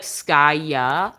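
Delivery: "Skaya" with a relaxed, drawn-out final A; English pronunciation. Shown as a demonstration. Explaining her pet's name to viewers, English pronunciation of "Skaya". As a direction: say "Skaya" the English way, loose on the last ah. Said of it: "in English, you'd say more like".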